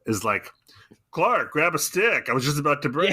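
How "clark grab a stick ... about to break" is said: all excited. Retold or imitated. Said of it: "like, all excited".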